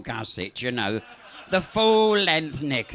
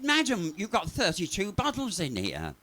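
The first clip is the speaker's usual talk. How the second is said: officer's voice; 4 semitones higher than usual. Retold or imitated. Officer confronts old lady.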